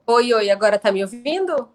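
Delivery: loud, clear call over bad line; to someone hard of hearing. Real, not acted. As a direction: raise your voice so they hear. Caller can't hear over connection.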